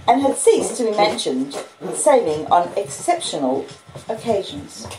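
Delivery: steady storytelling read, chapter by chapter; story narration. Acted. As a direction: read the novel aloud to listeners. Reads Great Expectations on stream.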